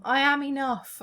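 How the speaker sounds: bright self-affirmation, said with conviction; confident affirmation. Shown as a demonstration. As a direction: declare it proudly to yourself. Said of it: "I want to say those things to myself".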